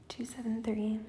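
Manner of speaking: soft whisper of the number. Real, not acted. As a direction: breathe the numbers out quietly. Repeating the number softly again.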